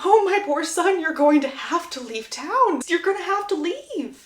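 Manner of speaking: hammed-up motherly distress; almost in tears. Mother lamenting over her son, acted near-tearful wail. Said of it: "Violet is almost in tears".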